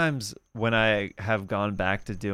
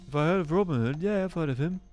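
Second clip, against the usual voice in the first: higher-pitched English character voice; Nottingham local; 7 semitones higher, faster than usual. Acted. Local answering the newcomer about Robin Hood, high English character voice.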